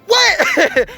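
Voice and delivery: sudden disbelief; mock stunned father; shocked dad. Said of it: "he was all like".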